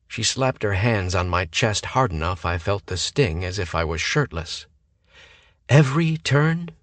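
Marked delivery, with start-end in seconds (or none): 5.7-6.7 1 incredulous echo. A narrator's reading. Sierra echoes incredulously.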